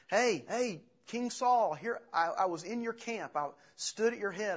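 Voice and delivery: high, loud call across the valley, hey hey; yelling down to the camp. Retold or imitated. David calls down to King Saul's camp, loud and high. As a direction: shout it down the mountainside to the sleeping camp. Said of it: "he yells down into the camp".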